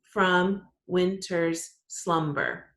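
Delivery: from winter's slumber spoken very slowly, syllables spaced; counting syllables. Shown as a demonstration. Teacher counting the last line slowly. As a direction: stretch from winter's slumber out beat by beat. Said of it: "Then the last line".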